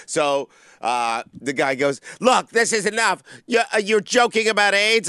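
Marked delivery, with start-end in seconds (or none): 2.2-5.1 higher, louder fed-up objection; indignant protest. Retold or imitated. Offended man scolding the comic about the joke, high and indignant. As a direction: scold the comic like you've had enough.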